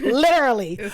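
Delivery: laughing loud and high. Real, not acted. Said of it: "I got too loud".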